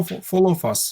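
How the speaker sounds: whispered under the breath; whispering. Real, not acted. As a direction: drop to a whisper on the repeat. Teacher repeats phrase under breath.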